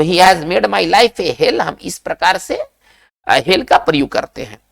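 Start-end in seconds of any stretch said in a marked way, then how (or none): 0.0-1.6 each English word spaced out very slowly; slow dictation. Shown as a demonstration. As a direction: spell it out slowly for the class to repeat. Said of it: "इस चीज को हम कैसे लिखते हैं".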